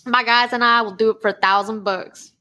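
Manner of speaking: a hint of a folksy hillbilly greeting; hillbilly accent. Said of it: "my hillbilly accent".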